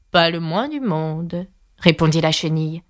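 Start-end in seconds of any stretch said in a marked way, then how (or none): 0.1-1.5 slow, drawn-out denial; dismissive caterpillar. Acted. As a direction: contradict slowly and coolly. Caterpillar curtly contradicts Alice. (chenille dédaigneuse, très lente)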